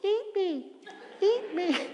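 tiny high squeaky eat me; high little tempting voice. Retold or imitated. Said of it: "this little".

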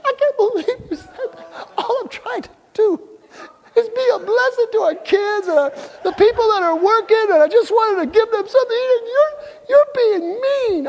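very high, squeaky imitated sobbing wail; mock crying. Wife wailing to her husband that she meant well, exaggerated crying. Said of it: "She starts crying".

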